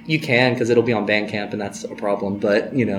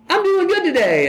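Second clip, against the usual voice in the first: much higher, slow, starstruck; high eager reply. Retold or imitated. Fan answering a singer, slow and high.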